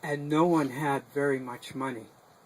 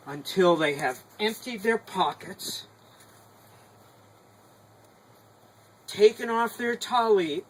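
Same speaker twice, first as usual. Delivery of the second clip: stern rabbi; 4 dB louder than usual. Acted. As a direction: lay down the law calmly but firmly. Rabbi commands the congregation.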